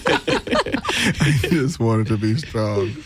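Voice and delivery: slow, drawn-out mock echo; mimicking a friend. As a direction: parrot the line back slowly. Repeats friend's line in mimicry.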